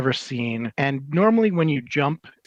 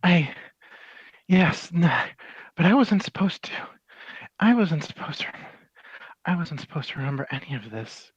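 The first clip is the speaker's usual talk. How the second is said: panicked; 3 semitones higher, faster than usual. Acted. AI panics at memory.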